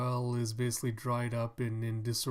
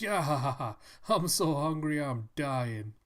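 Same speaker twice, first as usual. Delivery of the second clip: laughing hungry townsman; 2 semitones higher, 5 dB louder than usual. Pretend. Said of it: "He's like".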